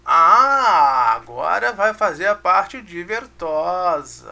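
loud drawn-out Ah, then a slow playful build-up; playful announcement. Acted. Teacher hyping the fun part to students, loud and slow.

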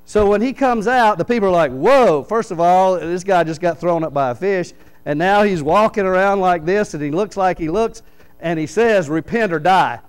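loud, stunned townsfolk gasping at Jonah; half-acted amazement at a walking dead man; shocked crowd. Preacher voices Nineveh crowd seeing Jonah, loud shocked.

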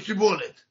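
سیبولت دوباره با سین; «سیبولت» را باز با s به جای ش بگو; saying sibolet. Shown as a demonstration. (سیبولت با سین)

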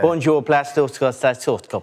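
badly faked French accent; mock French. Recruit repeats his French on request, badly faked French accent. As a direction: confidently reel off nonsense French. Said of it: "can you say that one more time?".

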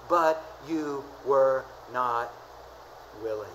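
lament. Acted. Jesus lamenting over Jerusalem.

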